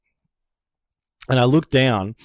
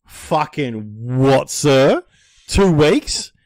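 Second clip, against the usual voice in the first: shocked disbelief; 3 semitones higher, 3 dB louder, much slower than usual. Retold or imitated. Shocked at two weeks.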